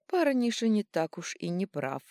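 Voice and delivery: high, ringing crystal voice; ringing crystal chime voice. A narrator's reading. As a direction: crystal voice from everywhere. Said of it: "Хрустальный голос прозвучал отовсюду".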